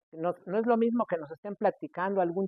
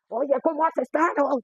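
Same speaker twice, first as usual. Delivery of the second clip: louder and higher, calling over loud speakers; shouting over music; 9 semitones higher, 5 dB louder than usual. Retold or imitated. Man shouts hello to a friend over party speakers, calling out. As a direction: yell a greeting across a noisy party. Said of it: "es casi estarle gritando".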